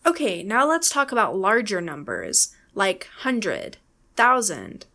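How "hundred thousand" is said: hundred and thousand stressed at the front; first-syllable stress. Shown as a demonstration. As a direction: punch HUN and THOU, let the ends fall. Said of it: "Stress is on the first syllable".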